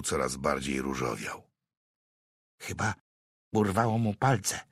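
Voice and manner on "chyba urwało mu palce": grave. A narrator's reading. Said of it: "zauważył z powagą".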